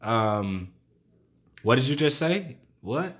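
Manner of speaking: imitated disbelief. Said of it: "your thinking mind is about to be like".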